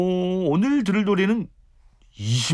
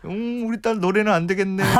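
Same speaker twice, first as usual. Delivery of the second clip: mock disappointment; 7 semitones higher than usual. Joking verdict on daughter's singing.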